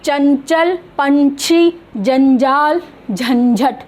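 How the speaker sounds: चंचल, पंछी, जंजाल, झंझट with a palatal n; word-by-word चंचल, पंछी, जंजाल, झंझट; pronunciation demo. Shown as a demonstration. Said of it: "इसका उच्चारण थोड़ा सा डिफरेंट".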